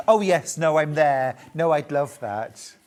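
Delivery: loud burst of imitated enthusiasm; mock eager chorus. Host mimics everyone won over by Cornish pasty, eager mock cry. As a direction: act out a crowd suddenly won over. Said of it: "then suddenly everyone went".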